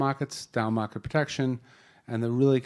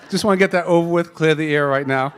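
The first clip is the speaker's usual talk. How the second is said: laughing; 5 semitones higher, 10 dB louder than usual. Real, not acted. Laughing admission of man crush.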